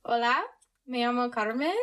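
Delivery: careful learner's Spanish accent; attempted Spanish accent. Shown as a demonstration. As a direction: try a Spanish accent, a little stiffly. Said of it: "actually trying to do an accent".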